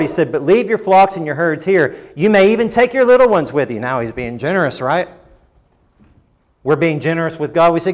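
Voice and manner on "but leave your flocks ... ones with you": high, loud, lordly concession; Pharaoh's grudging offer. Acted. Preacher voicing Pharaoh conceding to Moses, raised and lordly. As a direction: grant it like a king doing a favour.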